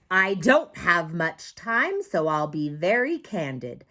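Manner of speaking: hurried, candid monster voice; impatient monster. Acted. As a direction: rush the kid like a monster. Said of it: "the monster demanded".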